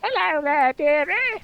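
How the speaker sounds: put-on high falsetto British old dear, held back; a contained, put-on British granny voice. Shown as a demonstration. Quiet version of the British woman voice, possessed-grandma falsetto. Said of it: "It's the quiet ver".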